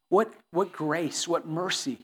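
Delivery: normal talking voice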